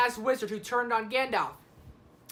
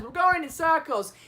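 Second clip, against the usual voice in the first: higher-pitched quoted movie line; Frodo; 5 semitones higher, 4 dB louder than usual. Retold or imitated. Frodo lost on the way to Mordor, light higher-pitched imitation. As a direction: lightly imitate a hobbit complaining. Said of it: "a line Frodo says".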